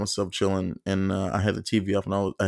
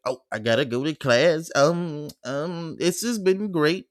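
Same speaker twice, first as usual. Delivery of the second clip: high, slow polite nerd voice; mock nerdy goodbye; 8 semitones higher, slower than usual. To the girl, leaving for class: high mock-polite farewell. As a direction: ham up the eager student.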